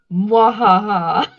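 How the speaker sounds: slow, loud evil mwahaha; hammed-up panto villain cackle; villain laugh. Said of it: "you have to say mwahaha".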